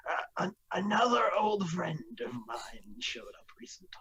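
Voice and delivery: lightly voiced old man, whispery; a hint of a frail old man. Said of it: "I need to use my old man voice for this".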